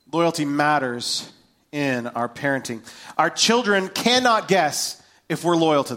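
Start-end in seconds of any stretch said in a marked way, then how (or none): 0.1-2.8 slow, deliberate repeat with pauses; measured, drawn-out delivery for emphasis. Real, not acted. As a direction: spell the point out slowly, phrase by phrase. Point repeated slowly for emphasis.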